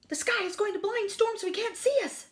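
high, proclaiming dog voice; announcing. A narrator's reading. Dog announcing good news to the animals, proclaiming. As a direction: declare it confidently to everyone. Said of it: "Dog announced".

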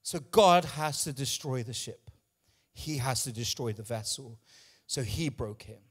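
preacher spent and breathless after shouting; out of breath. Real, not acted. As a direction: let the breath run out on the words. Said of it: "I'm out of breath".

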